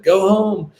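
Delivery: high, firm go home; curt order. Retold or imitated. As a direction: send them away for good. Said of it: "He's like".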